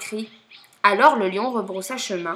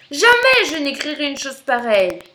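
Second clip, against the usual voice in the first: raised, indignant but restrained; annoyed refusal; 4 semitones higher, 5 dB louder than usual. Acted. Lion rejects the crocodile's letter, restrained anger. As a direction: refuse firmly, a touch of fury.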